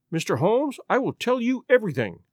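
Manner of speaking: a touch of an emotional outburst, rising; mild cry. Acted. Lady Hilda giving in to Holmes, mild cry. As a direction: blurt out your surrender. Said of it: "cried the lady".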